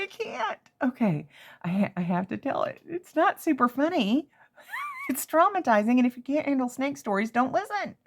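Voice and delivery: high, jittery nervous voice; rattled just retelling it; real nerves. Real, not acted. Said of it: "I'm flipping out a little bit just telling this story".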